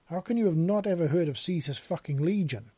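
loud, incredulous outburst; loud exclamation. A narrator's reading. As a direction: exclaim it loudly in disbelief. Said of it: "the man exclaimed loudly".

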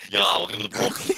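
a touch of Brooklyn guy; lightly voiced Brooklyn greeting; brooklyn accent. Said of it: "Brooklyn guy".

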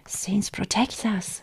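slow, understated muttered exclamation; muttered alarm. A narrator's reading. Mother alarmed by her daughter's tale, muttering. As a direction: mutter it slowly to yourself. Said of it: "she muttered".

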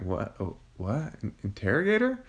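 retold surprise. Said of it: "And I'm like".

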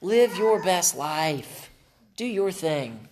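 high, drawn-out mock cheerleading; cheering crowd. Preacher mocks the world cheering its followers on, high and slow. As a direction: hype them up like a fawning crowd. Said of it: "the whole crowd is going".

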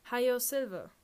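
loud, high "Hi-Yo Silver" like a DJ whoop; radio DJ call. Retold or imitated. Narrator mimicking the DJ, a loud high whoop. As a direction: belt it out like a cowboy radio host.

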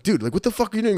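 high-pitched incredulous challenge; mock exasperated outburst; retold exasperation. Retold exasperated reaction while boarding.

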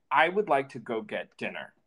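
firm, even, no-nonsense; stern voice. Retold or imitated. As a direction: put your foot down calmly. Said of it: "like, stern voice and say".

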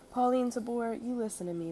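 put-on an old madam scolding the timid newcomer; peevish snap. A narrator's reading. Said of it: "Miss May snapped peevishly".

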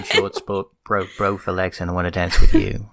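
matter-of-fact mock announcement; dry deadpan. Ken walking in to announce the news, dry deadpan. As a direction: deliver it drily, without any drama. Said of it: "his delivery of it is so, like, dry".

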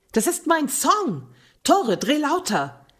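put-on high, slow, drunken shout; excited drunk call. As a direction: call out tipsy and thrilled. Drunk friend calling to barkeeper.

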